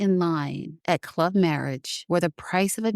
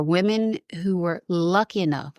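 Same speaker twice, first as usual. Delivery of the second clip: lightly sarcastic, leaning on the words; a touch of irony on the phrase. Real, not acted. Woman describing brides picked by men, lightly sarcastic. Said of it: "I say that sarcastically".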